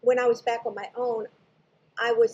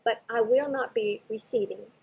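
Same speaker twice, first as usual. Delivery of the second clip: retold gently, much softer and calm; gentle, soft voice. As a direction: speak it like a kind, quiet presence. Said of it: "the voice very gently says".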